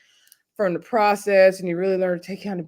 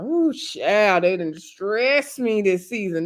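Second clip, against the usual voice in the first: lightly voiced weary pastor; slower than usual. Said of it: "he's like".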